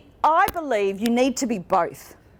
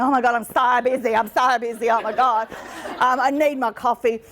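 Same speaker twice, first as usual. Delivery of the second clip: mock frazzled busy person. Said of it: "stand in line going".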